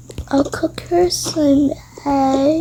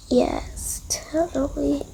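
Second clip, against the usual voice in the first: whisper; 6 dB quieter, slower than usual. Pretend. Pretend answer in game.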